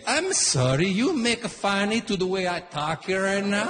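a hot-headed Italian father threatening the line-cutter; Italian dad. Retold or imitated. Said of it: "My Italian dad right away".

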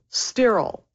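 "sterile" set apart and stressed; emphasis on sterile. Shown as a demonstration. Doctor stressing which saline spray to use, emphasis on "sterile". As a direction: land firmly on "sterile". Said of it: "Emphasis on the word sterile".

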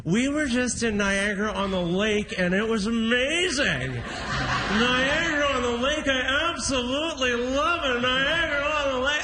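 drawn-out, savoring the name; dreamy boastful tourist; gushing local pride. Shown as a demonstration. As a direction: lovingly stretch Niagara-on-the-Lake slow. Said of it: "You say".

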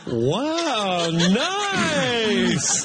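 high, drawn-out mock wow; mock awed crowd. Comedian voices everyone hearing a new space phrase, mock awed. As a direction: stretch it out like an impressed crowd. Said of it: "everyone was like".

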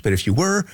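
"were" stressed and lifted in pitch. Real, not acted. Host posing a hypothetical to Steph, stress on "were". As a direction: lean on "were", letting it rise.

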